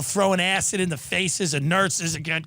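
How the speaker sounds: ordinary talk, nothing marked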